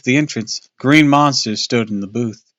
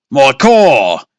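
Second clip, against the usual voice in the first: much louder, higher frantic cry; 4 semitones higher, 10 dB louder than usual. Acted. Father frantically crying to the monster booth. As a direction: shout it in desperation. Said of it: "Dad cried frantically".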